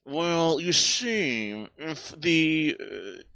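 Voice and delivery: lightly voiced snob, posh-ish; a hint of a smug rich lord; snobby aristocrat voice. Plays snobby rich Lord Cat.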